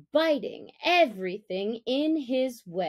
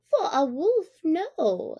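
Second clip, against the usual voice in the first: high, louder jackal voice, wheedling; a fawning jackal, pitched up; sly jackal; 7 semitones higher, 4 dB louder than usual. Acted. Tabaqui flatters Father Wolf in a high voice.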